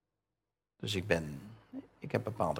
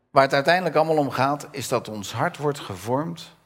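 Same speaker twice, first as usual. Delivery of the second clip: emphatic; 6 semitones higher, 8 dB louder than usual. Real, not acted. Preacher builds to main point.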